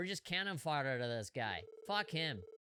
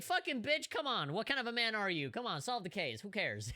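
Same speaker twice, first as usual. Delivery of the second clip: mock angry Ilya; 5 semitones higher than usual. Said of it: "Ilya would be like".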